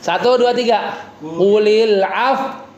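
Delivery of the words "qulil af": Qulil af- with lips pushed forward, slow; lips pursed. Shown as a demonstration. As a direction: round the lips into a pout on af-. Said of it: "berasa monyongnya nggak?".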